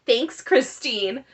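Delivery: ordinary talk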